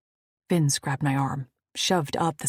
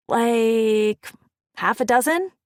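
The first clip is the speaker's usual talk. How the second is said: put-on high bright girlish voice; unsure, rising young woman; Tasha; 7 semitones higher, 8 dB louder, slower than usual. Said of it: "That was Tasha".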